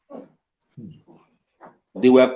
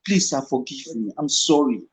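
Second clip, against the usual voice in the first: softer, pleading apology; a young actor softly begging his director's pardon; 6 dB quieter than usual. Retold or imitated. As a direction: beg forgiveness quietly. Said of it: "I was begging him".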